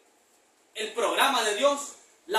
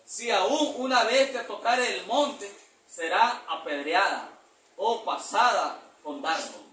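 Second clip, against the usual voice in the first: slow, measured reading of the verse; slow scripture reading; slower than usual. Acted. Preacher reading the verse slowly to the church. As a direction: read it out slowly like holy writ.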